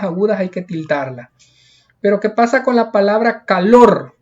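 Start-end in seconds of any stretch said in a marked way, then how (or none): 3.4-4.1 calor with weight on the final syllable; last-syllable stress. Shown as a demonstration. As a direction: land hard on the end of calor. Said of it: "lleva la mayor fuerza de voz".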